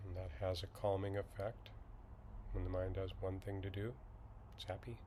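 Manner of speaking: slightly hushed, even meditation guide; calm, unhurried instruction with long silences; guided meditation. Acted. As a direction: ease listeners into settling, with long pauses.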